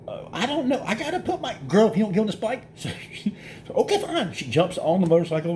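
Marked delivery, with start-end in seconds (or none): 0.1-1.5 much higher, hesitant, half-laughing; friend's wife stalling before hopping on, higher voice; dithering Amanda. Retold or imitated. 1.7-2.7 quick, higher, half-joking threat; exasperated warning. Retold or imitated. 3.7-4.3 much higher, grudging okay; friend's wife giving in, voiced high; Amanda giving in.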